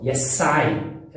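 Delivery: "Yes, I" com som de S surdo no fim de "Yes". Shown as a demonstration. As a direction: diga "Yes, I" sem deixar o S virar Z. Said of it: "Não tem som de Z, o yes, o yes é S mesmo". ("Yes, I" com S bem sibilado, sem som de Z)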